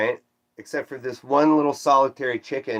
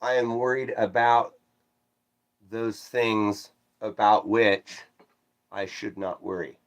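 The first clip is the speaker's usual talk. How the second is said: mock formal correction; 3 dB quieter than usual. Shown as a demonstration. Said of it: "except for my misplaced prepositions".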